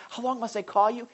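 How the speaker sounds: mildly acted cry to God. Prophet asking God how long, crying out. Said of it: "he's crying".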